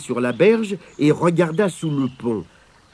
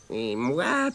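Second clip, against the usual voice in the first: low, soft inner voice; thinking to herself; 4 semitones lower, 7 dB quieter than usual. A narrator's reading. Spider reflecting on Mémé's threat, quietly to herself. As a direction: turn inward, softly. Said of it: "pense Abigail".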